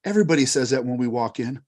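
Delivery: low, soft and quick aside; resigned grumble. Acted. Eggnogs to the bartender who is closing, resigned grumble.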